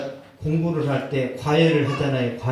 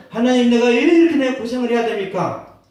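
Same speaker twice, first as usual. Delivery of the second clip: loud, higher half-laughing complaint; laughing lament; 6 semitones higher, 4 dB louder than usual. Retold or imitated. Soldier whining to God about his suffering, loud and laughing. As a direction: grumble at God through a laugh.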